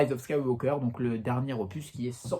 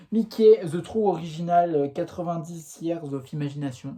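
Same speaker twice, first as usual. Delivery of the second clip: French-accented English; 3 semitones higher, 5 dB louder than usual. Shown as a demonstration. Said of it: "on adore mon accent anglais".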